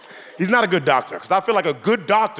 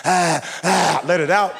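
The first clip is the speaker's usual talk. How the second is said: strained breathing; 3 semitones higher, slower than usual. Retold or imitated. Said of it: "I gotta breathe".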